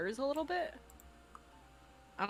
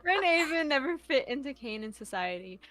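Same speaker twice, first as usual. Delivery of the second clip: exaggerated slow reading; 6 semitones higher, 4 dB louder than usual. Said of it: "slow for you then".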